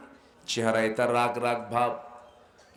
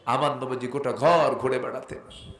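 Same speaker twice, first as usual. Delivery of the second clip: normal talking voice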